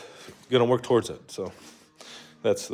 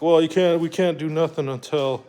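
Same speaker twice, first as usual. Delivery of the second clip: raised pitch, imitating dismissive staff; mock excuse-making staff; 5 semitones higher than usual. Hospital staff telling a patient they can't help, mock excuse-making.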